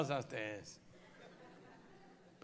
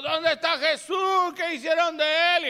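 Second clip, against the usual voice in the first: crying out; 13 semitones higher, 14 dB louder than usual. Acted.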